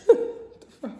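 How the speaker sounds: high startled exclamation; surprised. Real, not acted. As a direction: react sharply, caught off guard. Startled reaction after laugh.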